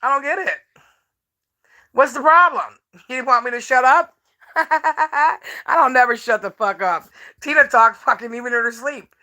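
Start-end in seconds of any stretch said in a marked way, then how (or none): 4.6-7.1 slow, laughing through the words. Real, not acted. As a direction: laugh it out, slowly. Mocking repeated catchphrase, laughing.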